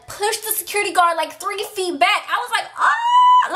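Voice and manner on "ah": sudden high shriek of shock; shocked scream. Retold or imitated. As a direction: scream like you can't believe it. Shocked at push on guard.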